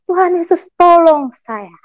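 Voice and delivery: high, heartfelt plea to Jesus; retold plea. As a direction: call for help, reliving the labor. Retells crying out to Jesus in childbirth.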